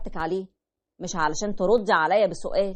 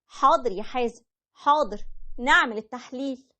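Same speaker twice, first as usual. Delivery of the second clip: higher wife voice giving in; wife agreeing; 4 semitones higher than usual. Retold or imitated. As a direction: answer as the wife, pitched up. (صوت الزوجة وهي بتوافق)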